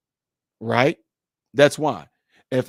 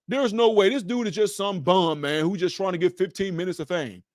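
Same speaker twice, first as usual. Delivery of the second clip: higher mock-incredulous critic; imitated scoffing doubter; 4 semitones higher than usual. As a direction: scoff at him as a nobody, in imitation. Mimics doubters dismissing him.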